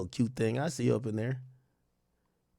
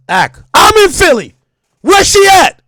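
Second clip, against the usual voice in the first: hammed-up eager question, much higher and louder; eager chat reader; 12 semitones higher, 9 dB louder than usual. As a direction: read it like a thirsty fan. Reading an eager chat message aloud.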